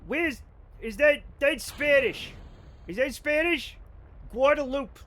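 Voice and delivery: imitating parents. Parent impression continues.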